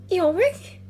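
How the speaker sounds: put-on young girl voice. Lyra voiced.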